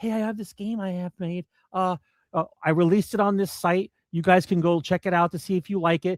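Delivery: humble, pleading, begging tone. Imitating game makers coming back to gamers: imitating developers begging. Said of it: "they'll be begging".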